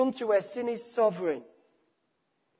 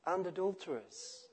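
soft, gentle, much quieter; 3 semitones lower, 11 dB quieter than usual. Retold or imitated. Friend quietly rebuking the ranting milkman, gentle and soft. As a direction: say it softly, almost under the breath. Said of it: "very gently and very quietly said to him".

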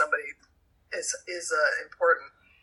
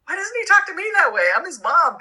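mock whiny complaint; 11 semitones higher, 5 dB louder than usual. Mother's retold complaint.

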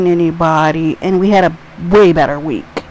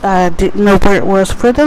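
happy excited; 4 dB louder than usual. Real, not acted. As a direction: bounce back in happy and upbeat. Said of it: "I'm so happy".

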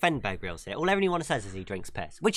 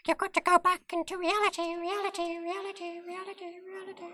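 high voice fading into an echo; 3 dB quieter than usual. Pretend. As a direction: let the words echo away to nothing. Echoing fade back to reality.

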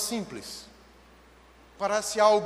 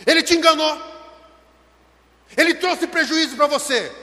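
high, loud pulpit exclamation; heated preacher's cry; impassioned preaching; 6 semitones higher, 6 dB louder than usual. Acted. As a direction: throw it out forcefully to the congregation. Preaches at full force.

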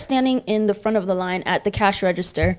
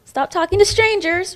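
calm correction; 9 semitones higher than usual. Retold or imitated. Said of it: "calmly telling her".

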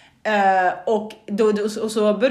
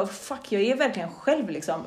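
softer, sinking realization; dismayed mutter; 2 semitones lower, 7 dB quieter than usual. Retold or imitated. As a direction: half-whisper the dread. Inser ensamheten. (tyst insikt)

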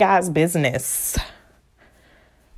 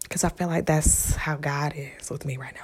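hushed unvoiced whisper; 4 semitones lower, 11 dB quieter than usual. Real, not acted. Explaining why she whispers, in a hush. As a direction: keep it under your breath. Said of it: "Yes, I'm whispering".

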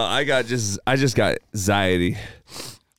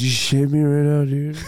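excited shout; 4 semitones higher than usual. Real, not acted. Excited outburst to friends.

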